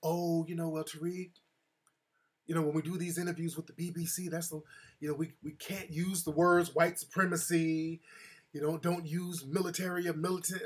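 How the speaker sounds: lightly voiced cautious publicist; a hint of a nervous publicist on the phone. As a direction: soothe him while laying down the rules. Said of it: "Then the publicist called me".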